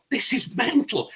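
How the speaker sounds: high-pitched, drawn-out exclamation; retold disbelief. Passenger reacting to deer hitting the taxi, in high retold disbelief. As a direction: exclaim it slowly in mock disbelief. Retelling his shock at deer crash.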